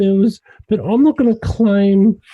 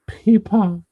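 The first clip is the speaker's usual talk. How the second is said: Pippa stretched out in a lazy Australian accent; slow Australian drawl. Shown as a demonstration. Host demonstrating the Australian accent to UK friends, slow drawl. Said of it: "you begin to talk a little bit slower".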